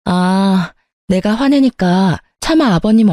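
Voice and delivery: plain reading voice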